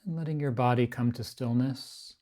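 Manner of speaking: unhurried, evenly pitched body-scan guidance, phrase by phrase; guided meditation. Acted. Teacher guiding a group to relax the body, guided meditation.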